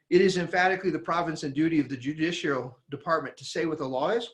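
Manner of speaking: fast, rattled-off quote; rushed recitation of the line; their reading. Shown as a demonstration. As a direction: read it off quickly, the way they do. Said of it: "You know how they read that?".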